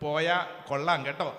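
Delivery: low, soft, hesitant pleading; hammed-up meek little rebuke; mock-timid request. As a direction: ask politely as if afraid to command. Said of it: "അങ്ങനെയാണോ?".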